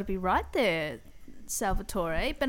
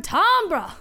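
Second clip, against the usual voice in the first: bellowed timber call; 10 semitones higher, 10 dB louder than usual. Acted. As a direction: bellow Timbre! high and loud. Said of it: "what the lumberjacks say when they knock the tree down".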